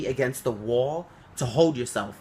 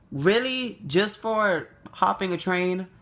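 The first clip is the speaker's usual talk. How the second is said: Really? asked much higher, falling in disbelief; incredulous; 5 semitones higher than usual. Retold or imitated. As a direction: echo Really? with shocked indignation. Repeats it in disbelief.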